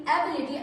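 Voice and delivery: teacher stressing "ability"; stressed word. Shown as a demonstration. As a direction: lean on "ability" and let it fall. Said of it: "I'm emphasizing on the word ability".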